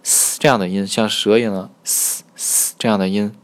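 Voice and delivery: hissing "嘶" like a snake. Shown as a demonstration. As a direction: hiss out a friction "嘶". (像蛇一样发出摩擦的“嘶”音)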